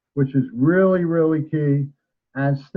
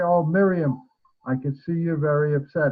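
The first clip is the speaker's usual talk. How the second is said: calm voice. Shown as a demonstration. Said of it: "and talk in a very calm voice".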